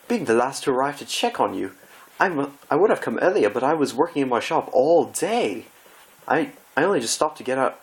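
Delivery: high, anguished theatrical gasp; dismayed Rarity. Acted. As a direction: wail as if the world is ending.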